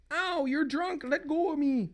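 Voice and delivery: high-pitched mock protest; distressed wife. Wife protests to drunk husband, high distress. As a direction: act a pained wife pulling free.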